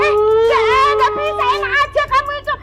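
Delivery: indignant refusal. Acted. She loudly refuses Pedro's proposal to marry, indignant. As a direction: push back the silly proposal loudly.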